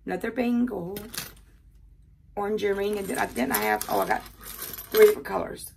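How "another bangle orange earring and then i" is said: usual speaking voice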